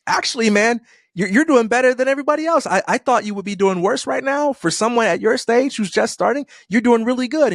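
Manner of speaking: high-pitched, earnest reassurance; encouraging onlooker. Acted. Someone reassures a struggling beginner, high encouraging voice. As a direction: pitch it way up, lightly insisting to a struggling friend. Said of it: "someone comes along and, and says".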